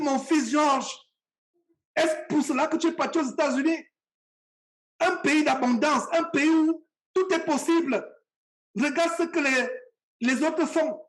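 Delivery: mild retold tearful reproach; imitated tearful mother. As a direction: plead like a hurt mother, without real sobbing. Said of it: "elle s'est mise à pleurer".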